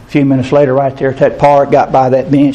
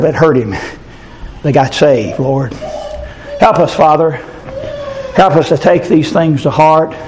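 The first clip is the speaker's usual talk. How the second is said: earnest praying to the Lord, lightly lifted; pastoral prayer. Acted. Pastor praying over the congregation, earnest prayer voice. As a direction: lead the church in prayer.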